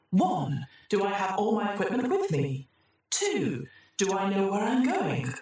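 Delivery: cheerful dystopian PA announcement; chirpy corporate computer announcer. Acted.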